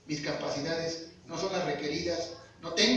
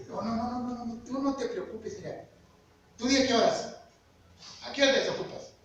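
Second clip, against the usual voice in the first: put-on Chihuahua accent; 5 semitones higher than usual. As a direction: press him to set a time, in a mild Chihuahua accent. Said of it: "Acento así de Chihuahua".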